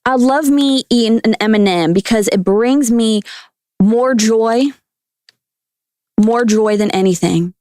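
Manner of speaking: lightly voiced Southern guest; Southern accent. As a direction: gush with a put-on Southern twang. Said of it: "talk in a Southern accent, please".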